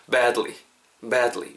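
"badly" with a wide, long "a"; spread-lip vowel. Shown as a demonstration. Teacher drills learners again, "badly" with a spread, lengthened "a". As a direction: widen the lips for the "a" in "badly". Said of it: "요렇게 말이죠".

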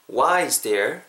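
"Why is there" run together as one unit; linked sounds. Shown as a demonstration. Teacher showing linking, "Why is there" joined smoothly. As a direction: glide from "Why" straight into "is there". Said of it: "한 번 더".

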